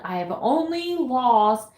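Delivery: slow, pained confession; drawn-out, difficult admission; hard-to-say admission. Real, not acted. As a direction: force out each word reluctantly. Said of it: "how hard it is for me to say out loud".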